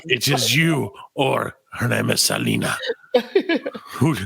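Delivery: slow ominous villain; hammed-up menacing boss; mock villain voice. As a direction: deliver the choice like a cult villain. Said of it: "I'm like".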